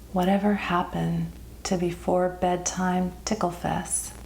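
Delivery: measured, gently lilting poetry recital; poem reading. Acted. Poet reads her childhood poem to her viewers, measured recital. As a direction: read it as verse, pausing after each line.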